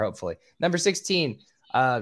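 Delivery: ordinary talk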